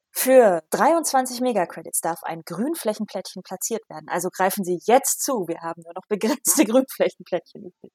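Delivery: lightly hammed TV sales pitch; teleshopping host. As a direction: sell it like a shopping channel, a little. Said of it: "wie beim Teleshopping vor". (leicht gespielter Teleshopping-Verkäufer)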